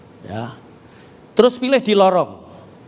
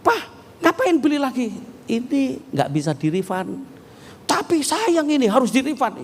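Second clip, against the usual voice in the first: raised, higher complaining wife voice; angry wife; 8 semitones higher than usual. Retold or imitated. Wife scolding her husband over the ticket, angry and high. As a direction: scold him for buying again. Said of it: "dia marah".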